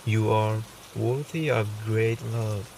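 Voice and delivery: calm meditation voice with long pauses; softly reassuring meditation guide, unhurried; guided meditation. Acted. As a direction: guide the listener gently, leaving space between phrases.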